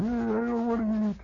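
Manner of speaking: high nasal whine; little brother refusing supper; whiny kid brother. Retold or imitated.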